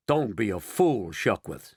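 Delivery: snapping. Acted. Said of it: "snapped ground control".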